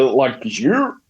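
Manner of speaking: drawn-out northern twang; northern accent. Shown as a demonstration. Showing how they'd sound back up north, northern accent. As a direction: stretch it in broad northern dialect. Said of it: "I'd sound like that".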